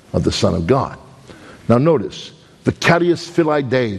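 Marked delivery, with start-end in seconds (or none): 2.6-4.0 Brooklyn Latin. Shown as a demonstration. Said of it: "That's Latin with a Brooklyn accent".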